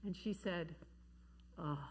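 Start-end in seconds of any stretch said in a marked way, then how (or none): 1.6-1.8 a drawn-out, fed-up "ugh"; mock-weary child's groan. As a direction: groan it like a tired kid who has had enough. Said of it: "just like that".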